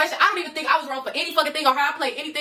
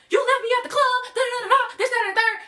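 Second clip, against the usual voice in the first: mocking high whiny girlfriend voice; girlfriend's complaint; 7 semitones higher than usual. Imitating girlfriend at his driveway, mocking high whine. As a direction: mimic her whining, pitched up. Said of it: "She like".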